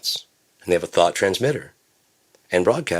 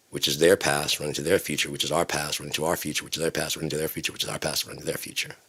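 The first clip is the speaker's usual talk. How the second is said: fading loop; 3 semitones lower, 8 dB quieter than usual. Acted. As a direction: recite it in a loop, getting steadily softer. Recites a looping phrase, fading away.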